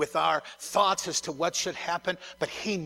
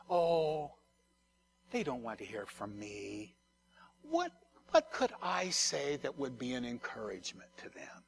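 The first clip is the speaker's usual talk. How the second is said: doubting inner self; 3 semitones lower, 4 dB quieter than usual. Acted. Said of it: "self gets involved and says".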